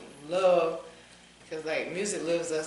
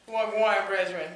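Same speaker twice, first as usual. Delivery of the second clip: lightly put-on Rasta accent; Rastafarian accent; 2 semitones higher than usual. Shown as a demonstration. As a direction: greet like a Rastafarian. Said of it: "start speaking like a damn Rastafarian".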